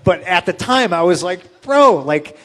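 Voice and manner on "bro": much higher and louder "Bro"; hammed-up disbelief; mock exasperated. Speaker protesting to Tony Atlas, mock exasperation. Retold argument.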